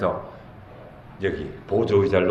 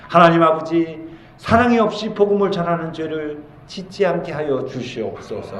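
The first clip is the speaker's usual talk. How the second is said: raised-pitch plea to God; earnest prayer; 6 semitones higher than usual. Shown as a demonstration. Preacher models a prayer to God for love, earnest prayer. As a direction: pray it out as a model petition. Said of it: "평소에 늘 기도해야 돼요".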